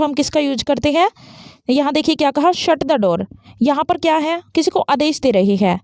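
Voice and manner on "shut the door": firm command, "Shut" hit and the tune falling. Shown as a demonstration. Teacher showing students a command, firm and falling. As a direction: give the order, dropping the tune. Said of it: "falling intonation का use करेंगे door से पहले".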